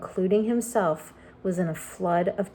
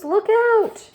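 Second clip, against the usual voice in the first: a high, loud warning cry, pitched even higher; desperate shout again; 13 semitones higher, 6 dB louder than usual. Acted. James seeing the centipede go over, shrieking. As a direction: scream the warning as he slips. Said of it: "cried James".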